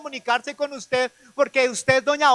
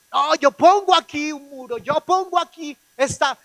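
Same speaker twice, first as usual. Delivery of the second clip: mild mock defiance, walling himself off; a hint of a stubborn man daring them; lightly voiced stubborn Jonah; angry Jonah; 5 semitones higher, 3 dB louder than usual. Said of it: "Eso es un Jonás".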